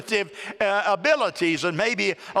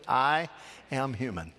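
call and response; 7 semitones lower, 5 dB quieter than usual. Shown as a demonstration. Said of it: "Say that with me".

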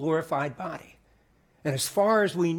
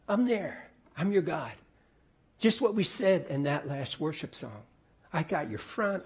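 tender reassurance; 4 dB quieter than usual. Acted. God reassuring a listener in trouble, soft and tender. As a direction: speak it like a gentle promise. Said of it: "hear from God say to you".

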